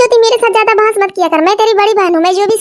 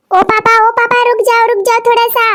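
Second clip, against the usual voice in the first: calling out; 4 semitones higher than usual. Acted. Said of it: "अब पापा को क्या चिल्ला रही है".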